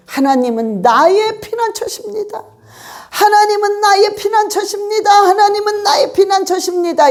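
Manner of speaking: 나의 stressed, each repeat climbing; repeated declaration. Shown as a demonstration. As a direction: chant it over and over with rising fervor. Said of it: "이러면서 계속 반복하는 거예요".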